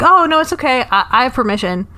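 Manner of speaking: high, airy oh no it's okay; breezy brush-off. Retold or imitated. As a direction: wave them off sweetly, unbothered.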